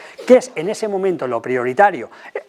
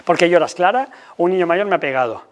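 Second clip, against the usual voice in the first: put-on parent and child dialogue. Shown as a demonstration. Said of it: "ponerle palabras a nuestros hijos".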